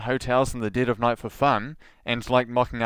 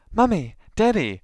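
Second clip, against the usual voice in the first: high mock child voice; child calling parents; 9 semitones higher, 4 dB louder than usual. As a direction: call out like a little kid.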